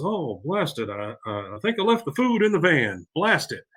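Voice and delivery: mock exasperated cartoon dad, jumping in pitch; Hank. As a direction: play at a frustrated dad's mild curse. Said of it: "Hank gets to the place, and he goes".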